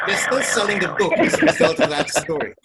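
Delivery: choppy, dropping-out audio; broken-up call audio; breaking up. Real, not acted. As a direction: voice cutting in and out on a bad line. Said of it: "You're breaking up".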